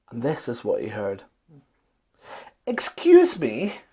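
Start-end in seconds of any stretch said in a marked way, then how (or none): 2.7-3.8 high, slow call across the site; a tall man calling up high. A narrator's reading. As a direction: call out to a worker. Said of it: "called a tall man".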